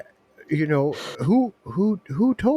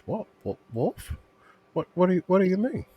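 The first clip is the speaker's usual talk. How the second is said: fast, higher, baffled; surprised; 6 semitones higher than usual. Acted. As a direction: blurt it out in disbelief. Shocked at offer.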